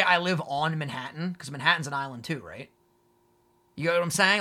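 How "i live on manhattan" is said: "on" said as the odd choice; "I live on Manhattan" said as the wrong form; sounds weird. Shown as a demonstration. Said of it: "So you would say".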